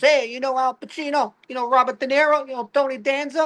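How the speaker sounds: high, eager string of questions; mock Italian-American banter. People quiz him on famous Italians, mock eager banter. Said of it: "they start acting like me".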